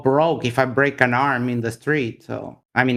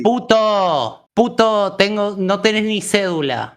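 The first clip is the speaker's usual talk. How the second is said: higher-pitched heated taunting; angry insults; 4 semitones higher than usual. Real, not acted. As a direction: hurl it at him as an insult. Insulting the other man in Spanish.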